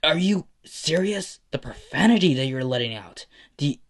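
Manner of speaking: high-pitched, loud scolding; profuse yelling. A narrator's reading. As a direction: yell in outraged disbelief. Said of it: "Ida would just profusely yell at Izuku".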